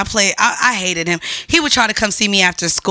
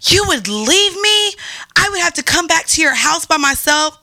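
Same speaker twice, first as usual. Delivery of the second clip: shocked; 6 semitones higher than usual. Retold or imitated. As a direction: gasp then ask in disbelief. Friend Carla's shocked quote after gasp.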